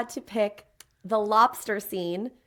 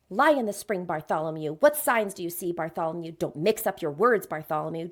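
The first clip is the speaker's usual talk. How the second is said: lightly voiced villainess, names dropping low; evil abbess; 6 semitones lower than usual. Gargoyle imitating the evil abbess to share his story, lightly villainous. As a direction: read it as a low, measured villain. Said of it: "So imitating the abbess".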